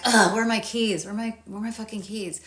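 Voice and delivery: mildly exasperated, opening on a grunted ugh; everyday irritation, kept small; mild annoyance. Acted. Everyday annoyance over lost keys.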